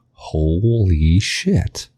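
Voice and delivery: very slow, drawn-out amazement; stunned realization. Acted. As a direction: stretch it out in mock astonishment. Acted shock at learning he's British.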